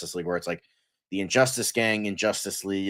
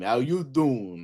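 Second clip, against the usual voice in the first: drawn-out catchphrase imitation; lightly put-on slow greeting; Joey; 3 semitones higher, slower than usual. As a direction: stretch it into a slow sitcom come-on. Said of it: "Joey is on the team".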